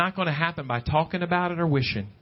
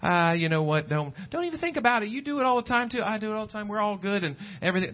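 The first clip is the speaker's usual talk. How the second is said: dismissive excuse; 5 semitones higher, faster than usual. Retold or imitated. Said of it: "look at our faults and our sins as just".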